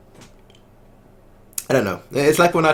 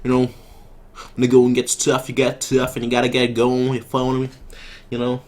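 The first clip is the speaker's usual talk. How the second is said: badly faked Brooklyn accent; half-hearted mock Brooklyn accent. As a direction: attempt a tough-talking Brooklyn accent. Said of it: "like a Brooklyn accent".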